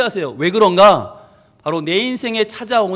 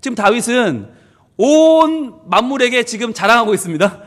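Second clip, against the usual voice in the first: ordinary talk, nothing marked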